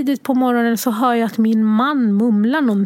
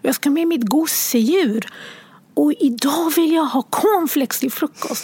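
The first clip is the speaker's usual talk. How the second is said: put-on higher, eager child voice; bossy little girl; 4 semitones higher than usual. Mother imitating her daughter planning her day, higher child voice. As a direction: lay out the day like a confident five-year-old. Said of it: "säger vad hon ska ha på sig".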